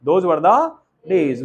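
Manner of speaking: drawn out, each word lingering; slow nostalgic phrase. Shown as a demonstration. Teacher to students, drawing out the phrase slowly. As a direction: savour the words slowly like a fond memory. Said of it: "teacher repeats phrase slowly".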